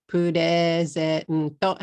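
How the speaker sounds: "Purezento" drawn out slowly, loud Japanese syllables; katakana pronunciation. Shown as a demonstration. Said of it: "How many syllables is that?".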